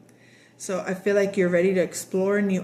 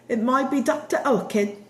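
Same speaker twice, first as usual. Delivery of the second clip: giggling through the words, higher; laughing; 5 semitones higher than usual. Real, not acted. Reader cracking up at her own slip, laughing. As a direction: laugh it out at your own joke.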